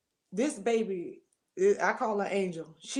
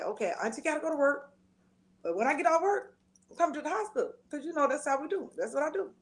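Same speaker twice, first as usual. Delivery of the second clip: quoting herself; 5 semitones higher, faster than usual. Retold or imitated. Speaker quotes herself to niece.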